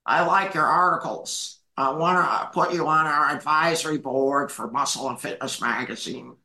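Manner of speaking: a hint of a magazine boss calling out of the blue; Joe Weider on the phone. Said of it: "somebody named Joe is on the phone".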